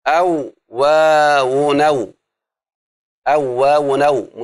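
drawn-out scansion of "أو واو نو", syllables run together; linked scansion. Shown as a demonstration. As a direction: stretch "أو واو نو" slowly, gliding into the last syllable with no glottal break. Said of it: "همزة القطع جعلها وصل".

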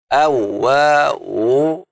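very slow, stretched "أو واو"; elongated scansion chant on "أو واو"; metre demonstration. Shown as a demonstration. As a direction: draw out each syllable of "أو واو" like a chanted beat. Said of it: "يعني شوف".

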